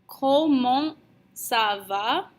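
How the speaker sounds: "Comment ça va?" slowly, rising at the end; teacher's careful French question; slow model pronunciation. Shown as a demonstration. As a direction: lift "va" into a question after a measured "Comment". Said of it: "and we say".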